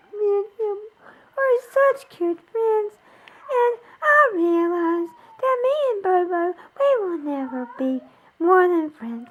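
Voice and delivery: tearful, voice breaking on each phrase; crying while talking about a friend she misses; real tears, words coming out in sobs. Real, not acted. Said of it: "I'm gonna try not to cry anymore".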